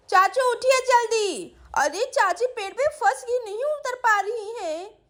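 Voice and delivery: drawn-out, insistent wake-up cry; urgent child's calling. Acted. Sweety calling her sleeping uncle, urgent calling. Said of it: "क्यों चिल्ला रही हो सुबह सुबह?".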